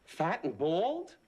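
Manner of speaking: slow, drawn-out scoffing repeat; slow amused scoffing question; mock disbelief. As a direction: savor the insult slowly. Mocking repeat.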